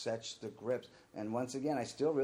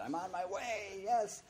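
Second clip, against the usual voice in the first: eager yes; 10 semitones higher, slower than usual. Retold or imitated. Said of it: "And I said".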